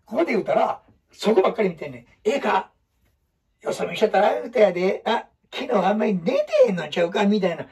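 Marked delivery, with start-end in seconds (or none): 2.2-7.2 put-on chatty teacher talking to the kids; addressing the class. Shown as a demonstration. Teacher demoing talk to many pupils, chatty address. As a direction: talk to a room full of pupils. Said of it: "ここに生徒いっぱいおる設定で喋ってるやんか".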